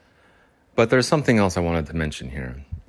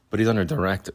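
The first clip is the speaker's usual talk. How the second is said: voice cracking; 3 semitones higher, 4 dB louder, faster than usual. Real, not acted. Host resuming the cat's orders, real voice crack. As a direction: voice cracks on "direct". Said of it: "you hear my voice crack?".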